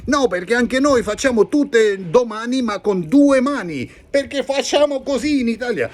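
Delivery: high, lively Italian voice; Italian character. Acted. Italian friend Giacomo greeting Jimmy, high and lively Italian. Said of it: "ε, Giacomo".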